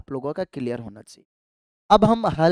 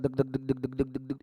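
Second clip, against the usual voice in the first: heartbeat sound; 3 semitones lower, 8 dB quieter than usual. Retold or imitated. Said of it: "आपका heart ऐसे होता है".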